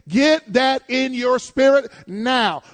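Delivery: drawn out, pressed home to the congregation; slow preaching shout. Real, not acted. Preacher to congregation, a slow forceful shout.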